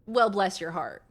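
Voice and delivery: lightly put-on Southern condescension; a pointed "well", then falsely kind; backhanded sweetness. Shown as a demonstration. Explaining the true meaning of bless your heart, backhanded. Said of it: "it's meant to be backhanded".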